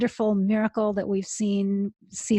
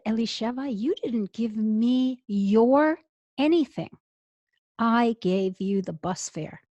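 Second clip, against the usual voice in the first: powerful divine voice. Retold or imitated. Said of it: "the voice said".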